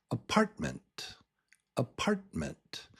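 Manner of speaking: "apartment" with strong PART and barely voiced ment; reduced last vowel. Shown as a demonstration. Teacher shows the weak vowel, "apartment" ending on a tiny mnt. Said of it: "So part is the strong syllable".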